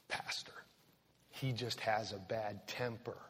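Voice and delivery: hushed, confiding plea; whispered excuse. Acted. Church member whispering to the pastor, making an excuse. Imagined congregant excusing a husband.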